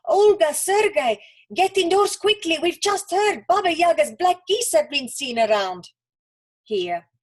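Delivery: put-on mama yelling for her kids to come in; bellowing mama. A narrator's reading. Mama calling the children indoors, loud and frightened. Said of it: "a bellowing voice of their terrified mama calling".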